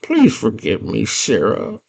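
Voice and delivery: put-on pleading character voice; Hoggle. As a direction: beg forgiveness, rising high on the last plea. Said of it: "Hoggle's like".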